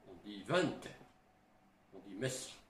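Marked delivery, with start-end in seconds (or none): 0.4-0.8 "Vent" with a lightly voiced Eastern accent, final t sounded. Shown as a demonstration. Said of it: "avec un accent". 2.2-2.5 "Mestre" with a hint of an Eastern accent. Shown as a demonstration. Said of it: "avec un accent".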